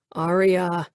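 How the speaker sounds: the name forced out under strain. A narrator's reading. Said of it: "Lucas said in a strained voice".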